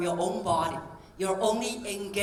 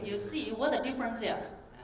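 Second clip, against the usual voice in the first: thin demo voice; 3 semitones higher than usual. Shown as a demonstration. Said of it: "demonstrate to you another voice".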